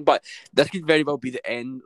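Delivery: echoey, like a big hall. Real, not acted. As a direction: sounds echoey in the room. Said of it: "why do I sound so echoey".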